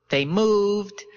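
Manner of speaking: high-pitched, teasing character voice; smug witness. A narrator's reading. Witness toying with his questioner, smug.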